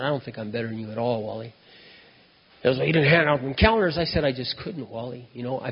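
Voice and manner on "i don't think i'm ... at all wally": soft, hushed calming reply; talking quiet. Retold or imitated. Speaker calms drunk Wally, soft quiet reassurance. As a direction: bring it way down to defuse the drunk. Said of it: "now I'm talking quiet".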